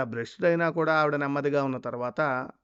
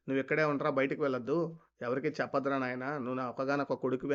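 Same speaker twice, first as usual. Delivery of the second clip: pleading mother; 4 dB quieter than usual. Retold or imitated. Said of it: "అని బతిమిలాడుకుంటే".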